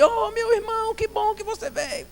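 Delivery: put-on very high-pitched excited old man; old deaf pastor. Old pastor greeting his visiting brother, high excited voice. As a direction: squeal a delighted welcome in an old man's voice. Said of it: "a conversa foi empolgada".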